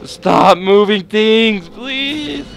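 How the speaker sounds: panicked plea. Real, not acted. Panicking at the game monster.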